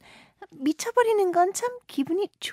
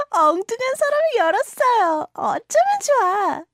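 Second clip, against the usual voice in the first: rushed and louder, caught in a blunder; fast, loud, panicky apology; flustered; 4 semitones higher, 7 dB louder, much faster than usual. Acted. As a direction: gush it out in a fluster. Flustered after opening wrong drawer.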